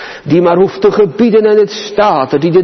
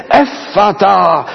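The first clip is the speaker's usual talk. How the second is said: called command; slower than usual. Acted. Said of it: "dat hij het geroepen heeft".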